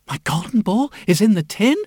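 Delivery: cartoon princess. Princess voiced.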